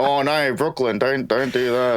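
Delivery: lightly hammed-up Australian pleading; Australian accent demo. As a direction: plead in an unserious Aussie accent. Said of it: "our accent is so unserious".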